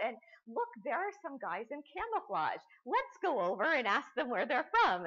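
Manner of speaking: mock clueless TV host. Lecturer mocking the RT host for her audience, hammed-up eager reporter. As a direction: play the eager young host who knows nothing. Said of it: "And he's like".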